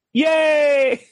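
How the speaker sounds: high cheering shout; excited cheer. Retold or imitated. Cheering at the strip club.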